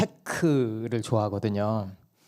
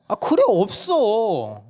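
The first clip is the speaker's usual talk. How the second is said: mother refusing; 9 semitones higher, 4 dB louder, much slower than usual. Retold or imitated. Mom refuses child.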